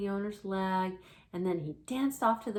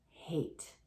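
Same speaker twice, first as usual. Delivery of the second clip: small frightened word; 3 semitones lower, 5 dB quieter than usual. Acted. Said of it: "she says".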